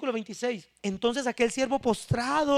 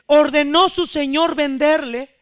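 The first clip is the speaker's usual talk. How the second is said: forceful sermon narration, louder; loud preaching; 6 dB louder than usual. Acted. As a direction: drive the story home to the congregation.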